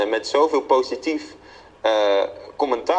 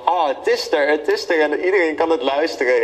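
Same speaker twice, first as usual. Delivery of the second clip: iets hogere, opgeluchte uitroep; verademing; 4 semitones higher than usual. Retold or imitated. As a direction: speel ingehouden na hoe de opluchting kwam. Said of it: "verademing van". (opgelucht nagespeelde gedachte)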